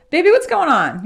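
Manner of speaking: imitating a sweet nurse's coo; sweet nurturing. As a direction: comfort a crying patient like a caring nurse. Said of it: "really sweet kind of nurturing".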